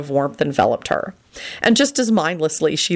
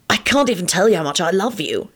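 earnest, lightly voiced declaration of love; fervent; 3 semitones higher than usual. A narrator's reading. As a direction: declare it with feeling. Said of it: "he said fervently".

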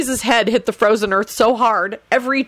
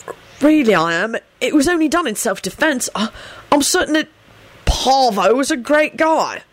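higher, halting sincerity; earnest; 6 semitones higher than usual. A narrator's reading. Sirius excuses the killing to the bald man, earnest. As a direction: plead your case earnestly, searching for words. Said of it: "Sirius said earnestly".

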